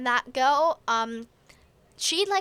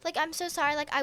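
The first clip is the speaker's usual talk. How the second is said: higher-pitched mock concern; retold concern; 7 semitones higher than usual. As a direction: imitate a girl fussing over her friend. Retold comforting of crying friend.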